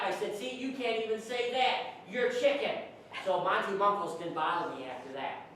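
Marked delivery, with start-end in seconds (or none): 0.4-2.7 triumphant taunt. Retold or imitated. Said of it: "I had the last laugh".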